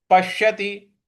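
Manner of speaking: पश्यति with a held, pushed श; stress on half श. Shown as a demonstration. Teacher demonstrating the stroke, stressed श in पश्यति. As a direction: press into the श of पश्यति on a level tone. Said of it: "पर हमें बल लगाना है".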